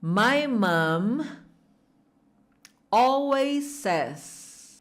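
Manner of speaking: two slow blocks with a pause. Shown as a demonstration. Teacher chunking the phrase for students to repeat. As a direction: say my mom, pause, then always says slowly.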